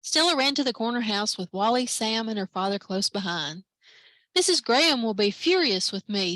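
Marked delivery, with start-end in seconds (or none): 4.4-6.4 moaning. Acted. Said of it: "Stella moaned".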